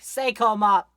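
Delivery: loud happy yell of the shop name; excited cry; cheering shout. Retold or imitated. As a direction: shout it like a devoted fan. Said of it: "I'd be like".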